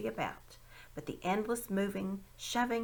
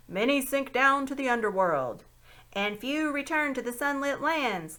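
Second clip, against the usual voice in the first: solemn password; 5 semitones higher, 6 dB louder than usual. A narrator's reading. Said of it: "as if it were a password".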